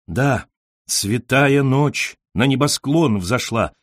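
slow, flowing poetic line; lyrical rippling recitation. A narrator's reading. Admirer quotes verse to the poet, slow and lyrical. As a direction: recite it like a rippling piano phrase. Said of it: "Фраза вылетела рахманиновским рояльным переливом".

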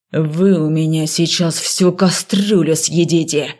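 slow low snarling threat; angry snarl. A narrator's reading. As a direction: snarl it as you lunge. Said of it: "рыкнул декан".

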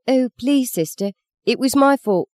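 put-on high squeaky little girl's plea; little girl pleads with the nun, squeaky and high; squeaked plea. A narrator's reading. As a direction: squeak it out like a frightened small girl. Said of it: "she squeaked".

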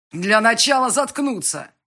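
loud, angry bark. A narrator's reading. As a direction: bark it to shut her up. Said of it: "рявкнул он".

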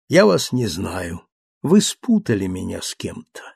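calm Leblanc. Acted. Narrator voices calm Leblanc.

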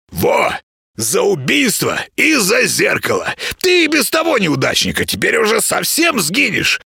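high-pitched, scolding creature voice; grumpy little house spirit. Acted. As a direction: nag like an indignant tiny housekeeper.

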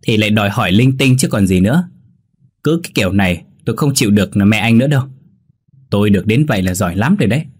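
mildly exasperated complaint; annoyed. Acted. Wife complaining to husband about his mother, annoyed. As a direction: grumble with irritation, speeding up. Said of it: "Nhi bực bội nói".

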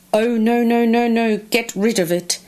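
a touch of alarm, running the no's together; emphatic refusal. Acted. Crocodile refusing the tooth from the mouse, hurried emphatic refusal.

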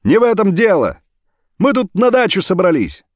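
brother's loud phone reply; shouting on the phone. Acted. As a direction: answer at full voice down the line.

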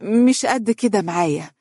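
high-pitched, hesitant fake shyness; stall, then confess with put-on embarrassment; feigned bashfulness. A narrator's reading. Daughter feigning shyness as she tells her mother about her husband. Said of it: "وتصنعت الخجل".

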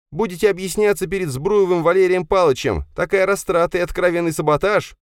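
high, cold female reprimand; stern woman. Acted. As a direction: scold him as a stern official. Sofya's voice. (Софья холодно отчитывает инженера)

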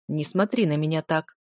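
hoarse low command. Acted. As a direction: order it in a hoarse voice. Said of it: "хрипло приказал Чен".

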